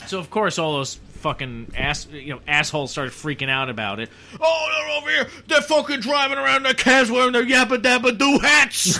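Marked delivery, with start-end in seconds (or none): 4.4-9.0 high, loud mocking New York rant; mock furious New Yorker ranting, half laughing; angry yelling. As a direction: scream it like an outraged blowhard. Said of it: "voice and yelling like that".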